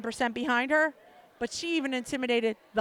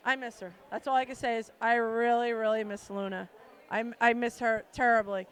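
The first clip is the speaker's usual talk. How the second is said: holding back tears; 3 semitones lower than usual. Real, not acted. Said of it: "as I'm trying not to cry now".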